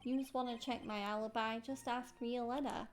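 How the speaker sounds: put-on tough-guy Brooklyn accent; Furio Tigre. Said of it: "Tigre's dialect".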